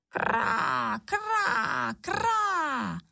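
high croaking caw from the sky; crow cawing. Acted. Crows cawing high above the ruins, croaking. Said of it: "zaznělo ve výši".

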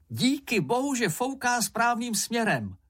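high-pitched relieved exclamation; excited cry. A narrator's reading. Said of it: "vykřikl Mumínek". (vysoko, s úlevou zvolat)

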